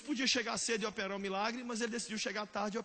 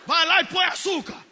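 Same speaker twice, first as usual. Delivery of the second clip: loud, curt retort; mother's snap; 6 semitones higher, 14 dB louder than usual. Acted. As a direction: bark it back like an annoyed mom. Mother snaps at child. (mãe respondendo brava)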